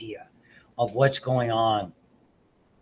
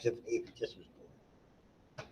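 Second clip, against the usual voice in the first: put-on baby voice; 2 semitones higher, 8 dB louder than usual. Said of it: "She's like".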